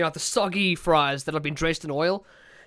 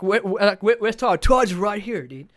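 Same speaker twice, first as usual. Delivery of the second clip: Todd voice. Retold or imitated. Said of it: "And this was Todd".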